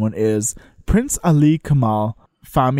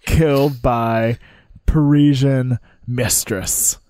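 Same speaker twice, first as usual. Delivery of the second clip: slow, spaced-out mock headline; headline read; much slower than usual. Co-host inventing a scandalous headline, slow headline read. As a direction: announce it word by word like a tabloid headline.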